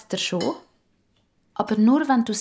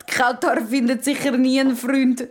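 lightly taunting sibling; teasing mockery. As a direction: needle your sister a little. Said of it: "spöttelt der Elias". (neckisch spottend)

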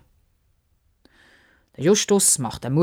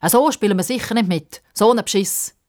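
higher-pitched grumbling complaint; aggrieved, raised voice; indignant protest; 5 semitones higher, 3 dB louder than usual. Acted. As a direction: protest like a cheated kid. Boys complain the match is unfair.

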